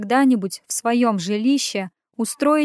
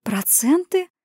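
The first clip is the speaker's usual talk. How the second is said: stunned murmur; 7 semitones higher, slower than usual. Acted. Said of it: "обомлев, пролепетала я".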